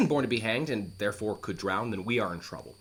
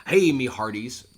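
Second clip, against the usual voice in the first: slow, louder pirate hail; lightly hammed-up pirate greeting; 6 dB louder, slower than usual. Shown as a demonstration. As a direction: hail the crew like an old sea dog. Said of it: "play this guy more like a pirate".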